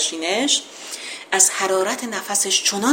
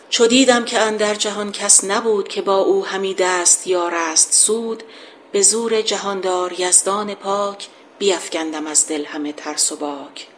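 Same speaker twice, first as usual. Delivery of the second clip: measured epic verse reading; poem recitation. Acted.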